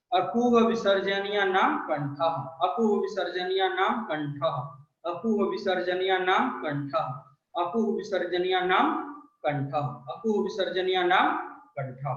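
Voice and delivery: rote sing-song recitation of a sutra; even chant, rising on नाम, dropping on कंठ; recitation drill. Shown as a demonstration. Teacher repeats the sutra for children to memorise, recitation drill. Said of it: "इसको दो तीन बार उच्चारित करेंगे".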